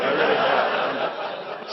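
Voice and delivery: laughing. Real, not acted. Laughing about his marriages.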